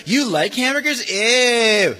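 mock a kid's food choice; disgusted sneer. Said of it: "You say".

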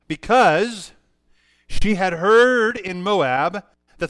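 measured reading with stretched key words; scripture reading. Acted. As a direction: read the verse out deliberately, with pauses. Reads scripture aloud.

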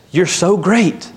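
high, gushing doggy adoration; excited dog. Acted. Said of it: "They're just so excited to see you".

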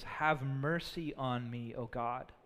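hushed reverent prayer; humble plea. Shown as a demonstration. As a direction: pray it gently, like a broken man. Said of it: "You know what David doesn't say?".

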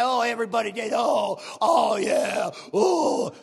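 loud hammed-up grumbling, half shouted; mock a bitter man on his porch; grumbling bitter old man. Mocking bitter old smoker.

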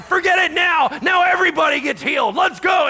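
full-volume, high rallying shout; screaming and yelling. Retold or imitated. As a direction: reenact yelling at the crowd to fire them up. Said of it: "I'm just, like, screaming and yelling".

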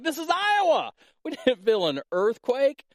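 high-pitched comic incredulity; retold disbelief. Preacher re-enacting his reply about an Iowa quake, high-pitched disbelief. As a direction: protest in exaggerated disbelief, voice jumping high.

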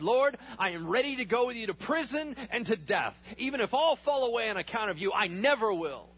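loud, high, insistent vow; Peter's bold declaration. Acted. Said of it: "But Peter declared".

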